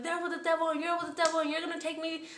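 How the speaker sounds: high mock scream without the volume; retold screaming. New inmate raving about the devil, mildly mimicked screaming. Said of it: "screaming at the top of her lungs".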